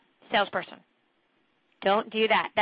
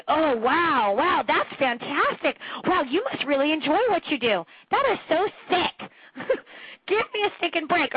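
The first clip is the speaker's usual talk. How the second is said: mock gushing; 3 semitones higher than usual. Coach mocking a gushing answer to a prospect's job. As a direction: gush over them like a fake fan, then sneer. Mocking an over-the-top response.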